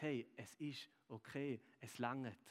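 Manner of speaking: soft and slow, like a smile made audible; gentle reassurance. Retold or imitated. Jesus smiling at Dave, speaking soft, slow reassurance. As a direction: comfort him tenderly, with no hurry. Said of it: "kommt und dich anschaut und sagt".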